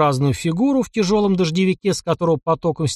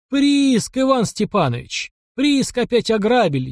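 чуть не плача; 8 semitones higher, slower than usual. A narrator's reading. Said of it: "чуть не плача ответил купец".

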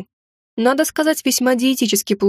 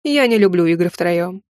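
dark lord; 4 semitones lower than usual. Acted. Villain count taunts.

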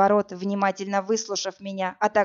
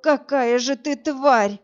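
moaned; 4 semitones higher, 5 dB louder, much slower than usual. A narrator's reading. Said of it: "простонала Зоя".

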